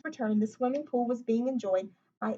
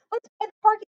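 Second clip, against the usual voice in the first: higher, louder eager call; excited cry; 10 semitones higher, 9 dB louder than usual. A narrator's reading. Librarian rallying Lewis to build the pool, excited and loud. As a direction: cheer everyone on to start. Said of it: "cried Miss Severs".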